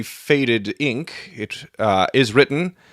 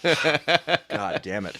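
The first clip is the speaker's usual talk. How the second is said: laughing; 3 semitones higher, 4 dB quieter, much slower than usual. Real, not acted. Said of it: "laughs at own flub".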